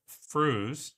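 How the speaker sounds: "frus" drawn out alone; sounding out syllable. Shown as a demonstration. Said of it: "pronounce the frus like".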